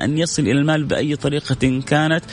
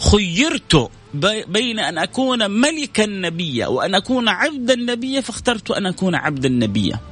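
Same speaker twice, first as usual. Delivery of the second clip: quoting the Prophet; 8 semitones higher than usual. Acted. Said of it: "هو يقول في الحديث".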